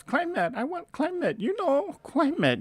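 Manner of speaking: put-on very high, exasperated mom with an Asian accent; mother's Asian accent. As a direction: squeal it high in imitation of her accented English. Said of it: "She goes".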